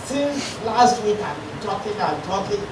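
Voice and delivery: tired, hoarse speaking voice. Real, not acted. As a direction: voice worn out from talking all week. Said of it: "I'm even losing my voice now".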